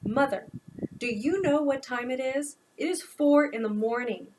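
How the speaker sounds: exasperated son scolding his mother; an irritated adult son laying down the law; frustrated. Acted. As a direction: push back hard, fed up at the early hour. Noah confronts mother at 4am.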